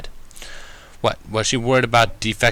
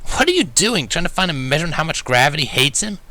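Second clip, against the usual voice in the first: snickering tease; 6 semitones higher than usual. Acted. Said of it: "started to snicker before asking".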